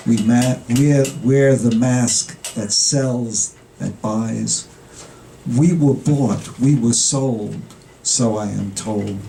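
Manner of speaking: rhythmic, incantatory recitation of repeated phrases; poetry reading. Acted. Poet reads a tribute to Dunbar, rhythmic verse recitation. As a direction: recite in deliberate beats, leaning into each repetition.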